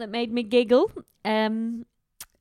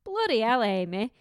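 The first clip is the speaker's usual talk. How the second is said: mum's Lancashire voice. Retold or imitated. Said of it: "do it in your mum's voice".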